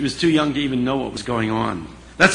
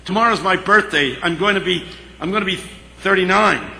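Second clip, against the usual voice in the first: boisterous; 5 semitones higher than usual. Retold or imitated. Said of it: "was especially boisterous".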